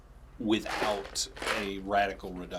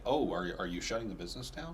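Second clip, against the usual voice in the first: flat deadpan; 3 dB quieter than usual. Retold or imitated. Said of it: "like, flatly".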